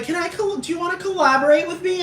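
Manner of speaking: mock Paris Hilton asking. Paris Hilton asking a singer to collaborate, sweet high voice. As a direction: ask sweetly, all wide-eyed. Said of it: "she's like".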